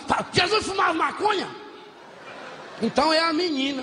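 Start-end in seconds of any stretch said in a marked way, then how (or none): 0.1-1.5 high, shouted mock indignation; mock outraged quote. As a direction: shout it like a scandalized churchgoer. Indignant quote of offended people.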